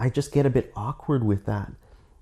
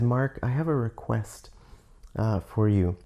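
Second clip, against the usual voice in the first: quiet humble request; 5 dB quieter than usual. Retold or imitated. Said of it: "in a really quiet, humble way".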